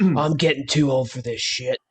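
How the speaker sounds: slow, tired cop one-liner; weary veteran cop. Pretend. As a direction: play the jaded old partner. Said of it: "buddy cop".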